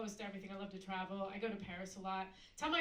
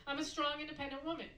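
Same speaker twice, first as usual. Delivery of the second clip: proud retort; 4 semitones higher, 4 dB louder than usual. Retold or imitated.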